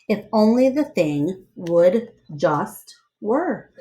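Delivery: lively read-aloud storyteller voice; story narration. Acted. Reading a picture book aloud to children, lively storyteller voice.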